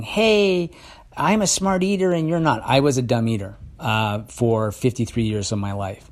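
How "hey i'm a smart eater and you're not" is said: smug mock boast. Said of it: "pointing at other people saying".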